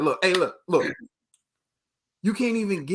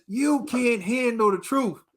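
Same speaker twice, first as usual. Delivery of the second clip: movie quote; 5 semitones higher, slower than usual. Retold or imitated. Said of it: "when he says".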